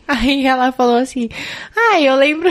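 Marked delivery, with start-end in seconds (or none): 1.7-2.5 high, bright recall of the mother; a touch of mom remembering; mother's voice. Retold or imitated. Mother quoted in story.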